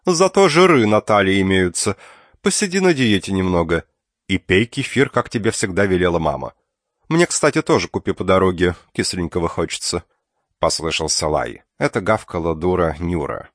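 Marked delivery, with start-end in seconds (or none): 0.0-10.0 bossy aunt. Acted. Aunt lectures niece on diet.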